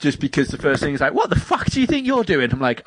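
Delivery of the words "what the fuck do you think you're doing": high, indignant Cockney shopkeeper impression; put-on Cockney outrage, pitched up; Cockney swearing. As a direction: swear at them in mock Cockney. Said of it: "he just swears in a Cockney sort of way".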